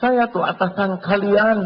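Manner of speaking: high, loud, slow bossy voice; hammed-up pompous boss; boastful boss. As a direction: lord it over the staff. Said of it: "Sama di kantor jadi atasan".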